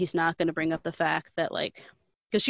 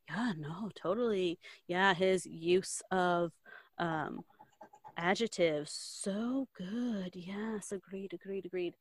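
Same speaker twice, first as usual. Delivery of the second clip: imitating hollow agreement, softer at the end; mock agreeing; 6 dB quieter, slower than usual. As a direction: murmur along as if you agree, putting it on. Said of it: "everybody's, like, agreeing".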